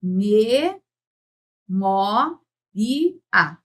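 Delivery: teacher's slow demo, pausing between syllables. Shown as a demonstration. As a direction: sound out "Me, mo, i, a" slowly, each syllable apart. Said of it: "se eu pronunciar bem devagarinho".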